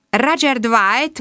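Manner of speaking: "Roger Dwight?" echoed slowly with a rising doubt; surprised repeat. Acted. Inspector echoing "Roger Dwight?" slowly, rising.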